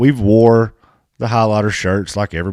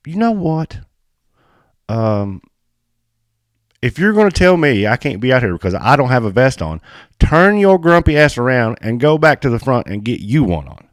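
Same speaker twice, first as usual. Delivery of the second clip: raised, pitched-up telling-off of the official; retold telling-off; 5 semitones higher than usual. Telling off the track official, pitched up and riled. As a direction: give the grumpy official a piece of your mind. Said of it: "And then I'm like".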